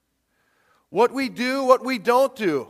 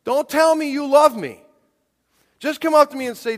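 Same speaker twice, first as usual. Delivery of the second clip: mock angry father; 6 semitones higher, 6 dB louder than usual. Father scolding a daughter.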